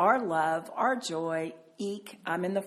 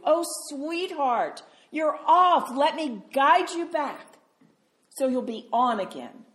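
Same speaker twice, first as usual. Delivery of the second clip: higher, tender coaxing, as a loving parent; compassionate; 5 semitones higher, 4 dB louder than usual. Retold or imitated. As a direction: gently call a lost child back. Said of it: "He has this deep sense of compassion".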